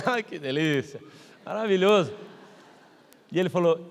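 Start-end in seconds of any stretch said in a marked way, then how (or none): 0.0-2.1 lower, put-on delight; forced congratulations. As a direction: fake the joy through gritted envy. Forced congratulations through envy.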